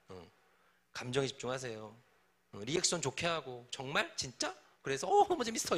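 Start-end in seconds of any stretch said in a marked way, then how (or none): 3.7-4.5 mock surprise. Shown as a demonstration. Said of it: "이렇게 해주라고". 5.1-5.8 high, bright delighted reply; eager reaction. Shown as a demonstration. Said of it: "이렇게 해주라고".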